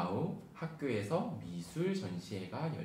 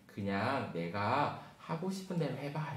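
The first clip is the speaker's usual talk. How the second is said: encouraging teacher; 3 semitones higher than usual. Acted. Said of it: "선생님은 빙글에 웃으셨어요".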